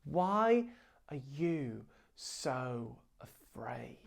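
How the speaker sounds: Jesus calmly answers the panicking disciples, whispered; gentle whisper. Retold or imitated. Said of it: "Jesus is like".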